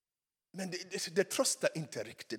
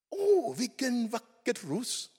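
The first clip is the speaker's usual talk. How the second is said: high, slow, drawn-out wonder; acted admiration; 9 semitones higher, slower than usual. Rose owner admiring the garden, mock-enchanted. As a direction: coo in delight over a flower.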